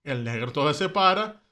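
ordinary delivery

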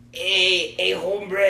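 put-on LA Chicano accent; Southern LA Hispanic accent. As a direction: imitate a Los Angeles Hispanic greeting. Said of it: "like, Southern Los Angeles Hispanics".

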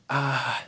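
soft, unsure "ah"; a small sound of holding back; hesitant "ah". Acted. Doubting disciple facing Jesus, softly hesitant. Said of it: "kinda hesitating".

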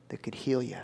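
whispered secret; hushed whisper. Acted. Maid whispers to Naaman about the healer, hushed. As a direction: breathe it like good news told in confidence. Maid tells of healing prophet.

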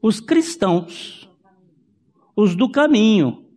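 normal talking voice

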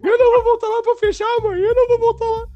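put-on very high, loud wailing child; hammed-up sobbing, blubber it out at the top of the voice; imitated crying. Terrified cousin refusing his mother's order, mock bawling. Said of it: "meu primo chorando assim".

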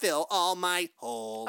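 slow mechanical robot delivery; deadpan sex robot voice. Pretend. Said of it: "I like talking like a robot".

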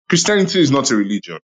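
"Christianity is not a religion" read quickly, without question intonation; quick title read, no questioning lift on "religion"; read as a statement. Real, not acted. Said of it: "in the tone, I didn't add question mark".

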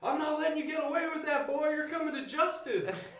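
very high, loud hammed-up old-timer; old vigilante accent. Retired citizen confronting a thief, hammed-up high old-man accent. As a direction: crank up a comic senior citizen accent. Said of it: "Matlock style senior citizen".

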